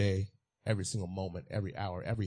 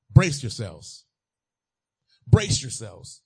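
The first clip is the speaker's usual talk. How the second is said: loud movie-hero yell; yelled line; 13 dB louder, much slower than usual. Retold or imitated. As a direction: shout it like an action star before the cliff. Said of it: "Yell it out".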